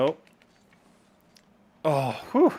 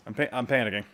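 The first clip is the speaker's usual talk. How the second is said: flustered panic; 3 semitones lower, faster than usual. Real, not acted. Gamer stammers out his panic as play gets tense. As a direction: trip over the word in a rush.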